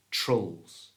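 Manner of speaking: "trulls" with a weak uh instead of I; schwa in trulls. Shown as a demonstration. Teacher modelling the second half of nostrils, schwa in "trulls". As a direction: say "trulls" as one isolated syllable, uh not ee. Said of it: "change the I for the schwa".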